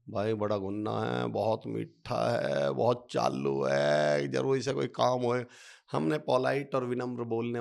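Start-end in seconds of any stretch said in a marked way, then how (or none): 0.1-5.5 slow, suspicious sneer, dropping low on चालू; snide gossip. Retold or imitated. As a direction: mutter the suspicion about the polite man slowly. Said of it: "हम ही क्या बोलते हैं". (धीमी, शक भरी तंज़)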